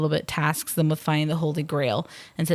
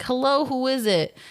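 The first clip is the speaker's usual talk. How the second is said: mock French guard; 7 semitones higher than usual. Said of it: "another guy's like".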